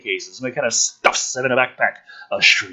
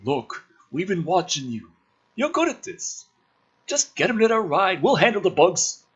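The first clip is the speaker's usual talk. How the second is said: softened respectful; 7 semitones higher, 5 dB quieter than usual. Acted. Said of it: "His tone softens. Respectful".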